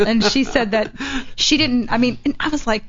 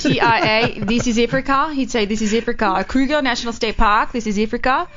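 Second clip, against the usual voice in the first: put-on Blood Diamond African accent. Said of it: "he'd be like".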